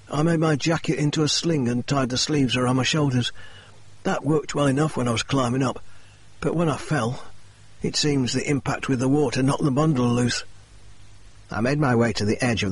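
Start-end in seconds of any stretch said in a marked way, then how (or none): 0.1-10.4 a hint of Murray's higher voice; lightly voiced Murray telling his fall; lightly voiced injured man. Murray telling Holmes and Watson of his climb, lightly higher voice. Murray explaining lost Grail.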